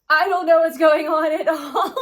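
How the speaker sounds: mock panic, high and loud; high, loud voice of someone at a loss; retold flustered cashier. Acts rattled store worker's reply.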